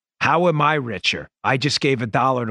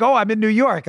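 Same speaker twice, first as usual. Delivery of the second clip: sudden realization; 8 semitones higher than usual. Retold or imitated. Waking confused in hotel room.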